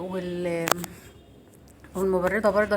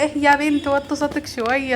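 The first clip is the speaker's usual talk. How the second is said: high, loud retold telling-off; mother scolding daughter; 7 semitones higher, 7 dB louder than usual. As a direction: re-enact a mum's exasperated call. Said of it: "وكل ما اقول لها".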